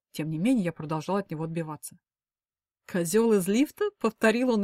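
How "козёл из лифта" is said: медленно, с насмешливым подъёмом на «лифта»; переспрашивает, смакуя насмешку; с усмешкой. Acted. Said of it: "губы изогнулись в усмешке". (Клим медленно, с усмешкой переспрашивает)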